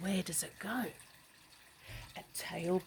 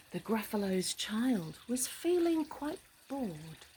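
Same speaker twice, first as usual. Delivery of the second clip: story narration; 3 semitones higher than usual. A narrator's reading. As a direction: read it like a bedtime rhyme.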